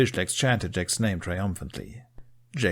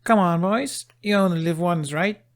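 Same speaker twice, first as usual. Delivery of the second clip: urging; 11 semitones higher, 6 dB louder than usual. Acted. Astrid urging boys to swim.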